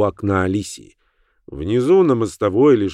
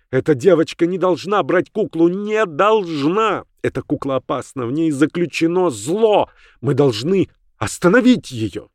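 urgent warning; 7 semitones higher than usual. Acted. Alicia urgently warns Sibyl of evil. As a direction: press the danger on her friend.

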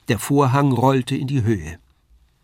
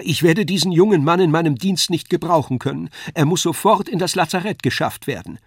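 Wagner's voice; 5 semitones higher, 3 dB louder than usual. A narrator's reading. Wagner addresses Faust.

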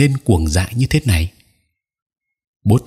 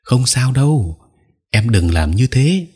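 gentle comfort; 4 semitones higher than usual. Acted. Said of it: "bèn xoa lưng nó rồi an ủi".

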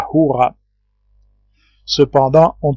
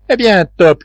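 mildly raised, higher-pitched call; 5 semitones higher, 4 dB louder than usual. A narrator's reading. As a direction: call to the dog with restrained volume. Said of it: "cria Nab". (appel lancé d'une voix un peu plus haute)

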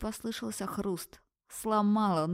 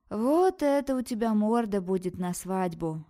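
slow, loud, horrified groan; groaning in horror; 3 semitones higher, 5 dB louder than usual. Acted. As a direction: moan it at the swollen face. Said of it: "со стоном выдала подруга с ужасом".

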